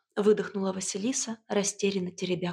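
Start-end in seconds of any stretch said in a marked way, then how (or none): none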